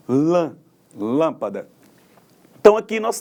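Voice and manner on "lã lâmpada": Lã alone, then lâmpada stressed on LÂM; stress on first syllable. Shown as a demonstration. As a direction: isolate Lã, pause, then say lâmpada leaning on LÂM. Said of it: "com maior intensidade". (Lã isolado, depois lâmpada com força no LÂM)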